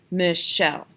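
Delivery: "Michelle" broken into two counted beats; syllable by syllable. Shown as a demonstration. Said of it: "count on my fingers".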